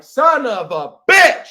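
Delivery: high, loud, slow exasperated curse; frustrated curse. Acted. Parent whose kid rejects the gift, cursing loud. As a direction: spit out the curse in disbelief.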